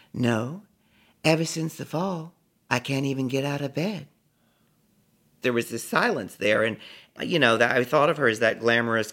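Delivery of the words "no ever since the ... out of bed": weary, sinking bedridden star; a singer. Retold or imitated. Ailing singer tells a fan she is bedridden, weary and sinking. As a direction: let the words fall into the bed. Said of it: "her words seemed to fall into that bed".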